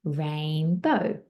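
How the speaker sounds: RAIN, BO as two separate beats; split into syllables. Shown as a demonstration. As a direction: sound out Rainbow syllable by syllable. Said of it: "count those, um, syllables".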